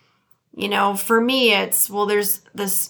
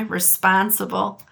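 Midwest accent; 3 semitones lower than usual. Shown as a demonstration. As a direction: say "Responsible" the Detroit way. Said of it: "That's the way we say it".

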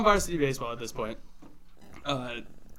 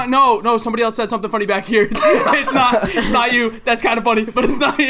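put-on kid deflecting; 5 semitones higher, 6 dB louder, faster than usual. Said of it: "the kid just goes".

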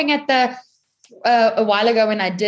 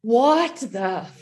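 slow, drawn-out mock bafflement; imitated disbelief; 3 semitones higher, much slower than usual. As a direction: stretch it out as a stunned child would. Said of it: "they must be like".

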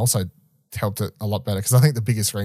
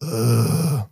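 short groaning undead grunt; zombie groan. Shown as a demonstration. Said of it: "That was like a zombie sound".

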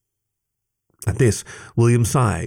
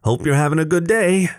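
barely concealed distaste; 7 semitones higher than usual. A narrator's reading. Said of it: "an air of barely concealed distaste".

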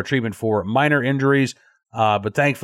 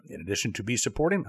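lower, softer, faltering stumble; flubbed line; 5 semitones lower, 11 dB quieter, faster than usual. Real, not acted. Host tripping over the sign-off pitch, flubbed line. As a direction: lose the line and drop the volume. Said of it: "I don't know what's going on".

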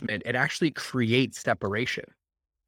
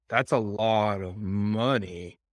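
shocked; 2 semitones lower, much slower than usual. Retold or imitated. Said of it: "And they were shocked".

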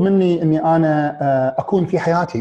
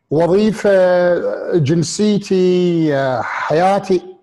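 slow; much slower than usual. Real, not acted. Listing items very slowly.

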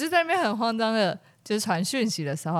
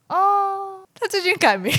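guard voice; 10 semitones higher, 4 dB louder, slower than usual. Retold or imitated. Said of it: "然后他就说".

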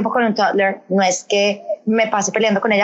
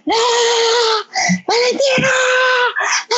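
hysterical shouting; 14 semitones higher than usual. Retold or imitated. Mom yelling at the pitbull leaning out the car window, panicked high shout. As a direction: shriek at the dog as it climbs out the window. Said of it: "yo histérica".

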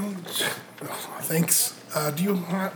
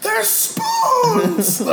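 high, loud merchant's shout; hawking wares; 5 dB louder than usual. Acted. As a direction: scream out your wares across a market. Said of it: "screaming out their wares".

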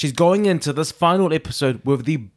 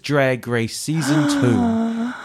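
dramatic announcer reveal. Acted. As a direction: drag out the announcement for suspense.

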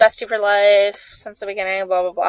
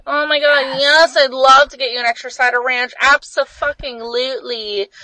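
sarcastic; 3 semitones higher than usual. Retold or imitated. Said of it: "kind of being sarcastic about it".

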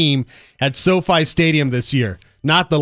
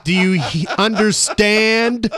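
mock slow explaining. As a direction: drag out "understand" slowly, as if to a child. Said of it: "let me speak slow for you".

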